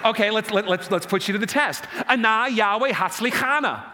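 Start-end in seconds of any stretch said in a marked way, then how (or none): 2.1-3.8 "Ana Yahweh Hatzlichana" called out in Hebrew; Hebrew pronunciation. Shown as a demonstration. Pastor puts congregation to the test, "Ana Yahweh Hatzlichana" as a Hebrew model to echo. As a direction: say "Ana Yahweh Hatzlichana" as ah-NAH YAH-way hahts-lee-KAH-nah. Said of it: "Let me pronounce it in Hebrew for you".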